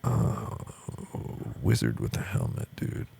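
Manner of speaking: lightly voiced stoner artist; stoned Toriyama. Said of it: "finishes the drag of his cigarette and goes".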